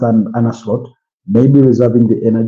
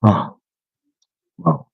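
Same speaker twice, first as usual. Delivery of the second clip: big yawn; 4 semitones higher, 3 dB quieter than usual. Real, not acted. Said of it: "Yawn after yawn".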